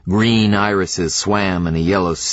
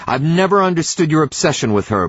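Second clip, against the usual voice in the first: voice climbing; 8 semitones higher, faster than usual. A narrator's reading. Wife shouting at husband's back, voice climbing. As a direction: build from sharp to screaming at him. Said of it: "her voice climbing".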